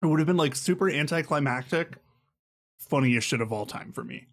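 eating while talking; chewing between words; mouth full. Real, not acted. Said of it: "I'm eating".

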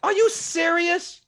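fervent testimony shout; preaching shout. Real, not acted.

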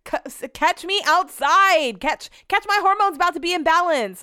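mock-tough boast, stretched out; hyped bravado. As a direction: taunt like you're ready to fight. Hyped about her supplements.

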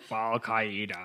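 drawn-out announcement of a name; grand echo. Pretend. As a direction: stretch the name out slowly.

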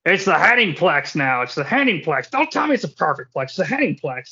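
a lightly voiced, self-mocking wrestler boast; Kurt Hennig impression. Podcast host doing a deliberately bad Hennig, lightly voiced. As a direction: toss off a bad Hennig imitation on the phone to headquarters. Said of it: "that's a really shitty Kurt Hennig impression".

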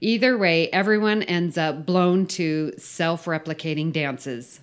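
emphatic read-aloud of a silly briefing; story read-out. Acted. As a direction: read the mission briefing with mock importance. Reads the filled-in story aloud.

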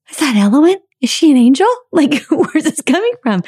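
high, amazed half-laughing questions; giggly high astonishment; surprised delight. Retold or imitated. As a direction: wonder if it is an angel.

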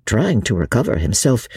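usual speaking voice

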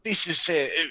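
low, measured merchant. Acted. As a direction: bargain calmly as a merchant. GM merchant NPC bargaining.

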